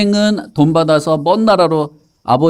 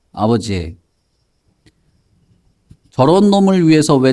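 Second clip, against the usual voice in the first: acted indignant protest; argumentative eldest son. Eldest son confronting his father over the feast, arguing indignantly. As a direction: demand an explanation, with mild outrage. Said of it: "아버지한테 따지기 시작했어요".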